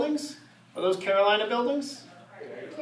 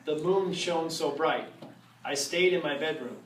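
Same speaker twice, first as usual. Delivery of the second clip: storybook reading; 3 semitones lower than usual. Acted. Reading a Halloween rhyme aloud to the audience, spooky storytelling. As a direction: read it to the crowd like a spooky storybook. Reads Halloween book to crowd.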